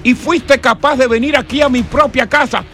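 mock outraged dad confronting the boyfriend; angry father. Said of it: "Le dio". (padre furioso, algo más agudo)

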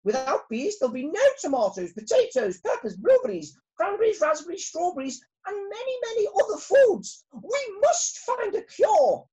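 high, loud and urgent royal speech; rally the bees with rising alarm; shouting queen. Acted. Queen bee at the special meeting, a high loud urgent queenly shout. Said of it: "she shouted".

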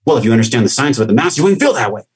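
lightly mocking a lecturing critic; mock know-it-all bark. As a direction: rattle it off like a condescending expert. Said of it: "barking at me from their ego".

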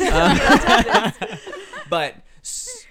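high laughter breaking through words; laughing while trying to talk. Real, not acted. Laughing after losing her thought.

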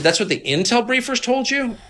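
incredulous. Retold or imitated. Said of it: "I was really mad".

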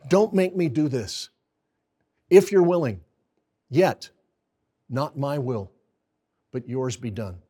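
Jesus begging in the garden, pleading; anguished prayer of Jesus. Retold or imitated. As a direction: beg the Father to spare him, then yield. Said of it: "Look at what he says".

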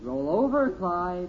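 loud trainer's order; dog command. Acted. Boy drilling a pretend dog, loud command. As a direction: order the dog to do a trick, loudly.

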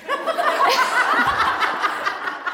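real high-pitched burst of laughter; long high laugh. Real, not acted. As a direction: break into laughter. Laughing at the friend's remark.

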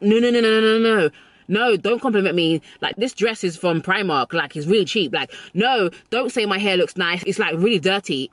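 mock-embarrassed refusal, waving praise away; flustered compliment deflection. Woman mockingly deflecting a compliment, flustered. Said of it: "you reverse it back".

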